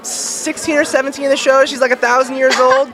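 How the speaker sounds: high-pitched, doubtful squirm; awkward hedging. Real, not acted. Guest breaks bad news about Finn and Bubblegum's age gap, awkward hedging.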